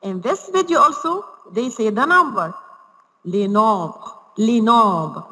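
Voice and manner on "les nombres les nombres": "Les nombres" said the French way, nasal "nom", final -bres nearly dropped; French pronunciation demo. Shown as a demonstration. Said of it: "we pronounce it like les nombres".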